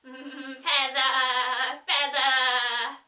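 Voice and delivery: loud, rising sing-song calls; Sheep crying again. Acted. Sheep nagging Alice's rowing with loud calls. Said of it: "the sheep cried again".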